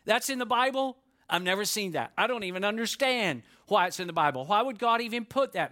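mock disbelief from a listener reading the Bible; imitated shock. Congregation member shocked by a Bible verse, mock disbelief. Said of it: "You're gonna say".

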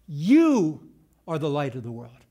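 You punched loud at the start; emphatic statement. Shown as a demonstration. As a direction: declare it firmly, leaning on You. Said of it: "an emphatic statement".

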